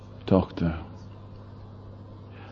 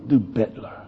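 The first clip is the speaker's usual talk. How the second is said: crowd rebuke. Acted. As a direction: shut the beggar up. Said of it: "Und ich sagte".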